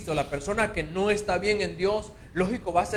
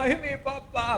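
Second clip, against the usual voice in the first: mock wail; 7 semitones higher than usual. Mimicking a grieving believer.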